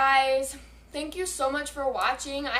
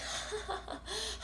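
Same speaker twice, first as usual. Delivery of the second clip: re-enacted high, soft giggle; hysterical laugh; 8 semitones higher, 11 dB quieter than usual. Rider laughing after hitting the tree, imitated hysterical laugh. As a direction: imitate a fit of helpless laughter. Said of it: "I'm, like, hysterical".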